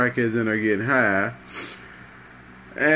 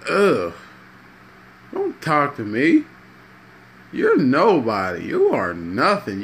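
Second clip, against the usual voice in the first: mock-disgusted, judgmental putdown; disgusted scorn. Christian tells crackhead "don't talk to me", scornful and disgusted. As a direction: recoil in disgust with swooping pitch.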